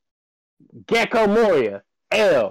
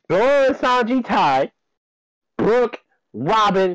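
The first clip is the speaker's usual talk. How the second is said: distorted, clipping mic; mic peaking; 3 dB louder than usual. Real, not acted. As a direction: talk too hot into the mic. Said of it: "Your mic is peaking a little".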